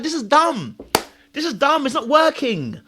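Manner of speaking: high-pitched frustrated protest; reenacted fed-up realisation; exasperated. Speaker realising the rebound failed, exasperated.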